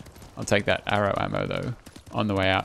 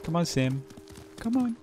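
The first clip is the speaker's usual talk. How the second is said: high cute voice for the horse; cutesy baby voice; 8 semitones higher, 6 dB quieter than usual. Shown as a demonstration. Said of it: "You gotta say it in a cute way".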